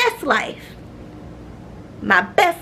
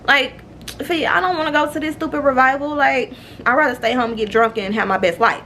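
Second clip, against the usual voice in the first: whiny reluctance; 6 semitones higher than usual. Retold or imitated. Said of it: "I'm just like".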